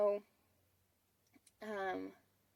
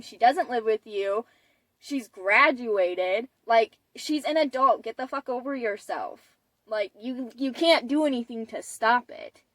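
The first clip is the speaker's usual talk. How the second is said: retold angry rant; 3 semitones higher, 5 dB louder than usual. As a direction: tell off the mom like the angry brother. Brother yells at the mom.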